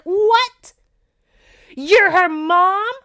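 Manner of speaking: very high, loud shriek of disbelief; hammed-up shocked outburst; freaking out. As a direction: scream it in stunned realization. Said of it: "She freaks out just like".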